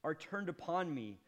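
building to loud and high lament; preacher reading Job's lament, rising; anguished reading. Acted. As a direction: read it as a man in torment. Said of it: "Verse fifteen says this".

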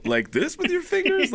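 slow, high-pitched disbelief; incredulous. Retold or imitated. Comic questioning the agent's hand gesture, incredulous. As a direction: ask it in drawn-out mock amazement.

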